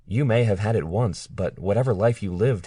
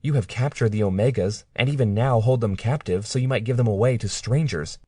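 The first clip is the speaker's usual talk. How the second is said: upset accusing; 5 semitones higher than usual. Acted. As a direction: pour out every grievance in a rising voice. Claire accuses her captor.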